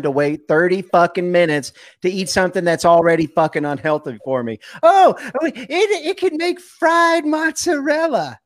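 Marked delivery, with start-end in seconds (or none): 4.8-8.4 high shouted mock enthusiasm; mocking outrage. Real, not acted. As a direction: shriek it in disbelief. Ranting about air fryers.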